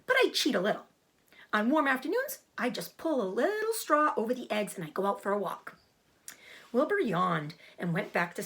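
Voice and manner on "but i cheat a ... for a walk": a goose admitting a small cheat; gossipy goose. Acted. Goose confides to Wilbur.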